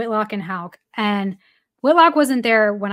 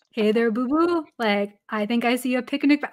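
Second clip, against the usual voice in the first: a lightly voiced Yogi Bear; a light, understated take on the cartoon bear; Yogi Bear impression. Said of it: "he did a perfect Yogi Bear".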